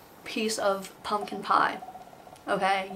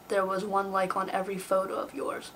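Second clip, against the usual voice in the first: whispered aside; 5 dB quieter than usual. Acted. Excuse to crush.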